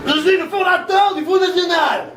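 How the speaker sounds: hammed-up old demagogue; Le Pen impression. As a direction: announce it with pompous pride. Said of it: "Le Pen".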